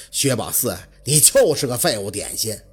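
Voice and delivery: bitter self-reproach. Acted.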